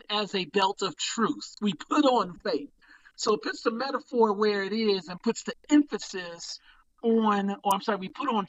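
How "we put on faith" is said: "We put on faith" whispered, no voice at all. Shown as a demonstration. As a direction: breathe "We put on faith" as a hushed aside.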